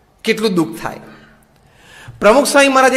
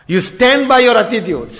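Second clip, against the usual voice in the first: slow maxim; much slower than usual. Acted. Closing maxim, slowly.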